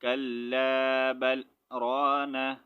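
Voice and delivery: slow, drawn-out reading without a breath break; in one breath. Shown as a demonstration. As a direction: stretch the words out slowly in one breath. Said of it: "रुकना है और फिर आगे letter पढ़ना है".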